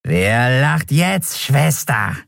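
slow, high, eerie taunt; gloating. Acted. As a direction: savour the victory over her. Skeleton gloats at captured Endriel.

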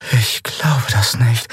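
ordinary delivery

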